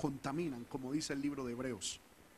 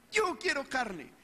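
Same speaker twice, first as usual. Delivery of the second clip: high, slow demanding whine; toddler whine; 9 semitones higher, 4 dB louder, slower than usual. Retold or imitated. Preacher imitating his toddler son wanting meat, high whine. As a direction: beg like a two-year-old. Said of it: "Eso es propio de mi hijo".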